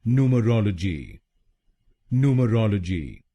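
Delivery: न्यूमरोलॉजी with the stress on रोल; stress on ROL. Shown as a demonstration. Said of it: "तीसरे शब्दांश पर यानी आरओएल पर जोर". (रोल पर जोर देकर न्यूमरोलॉजी)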